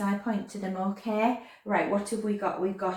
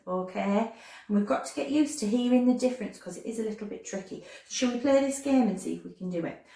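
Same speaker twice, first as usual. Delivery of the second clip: ordinary delivery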